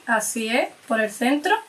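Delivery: speaking between bites; talking while chewing. Real, not acted. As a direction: mouth partly full of cake. Seen 0: The woman bites the cake at -3 s and still chews into the early words.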